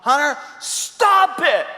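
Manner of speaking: slow, high, drawn-out warning to a son; a dad's stern phone command; firm warning to the son. Retold or imitated. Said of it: "Hunter would get on the phone".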